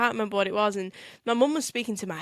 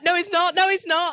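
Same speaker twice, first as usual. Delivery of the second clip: protesting; 7 semitones higher, 5 dB louder than usual. Retold or imitated. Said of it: "I was like".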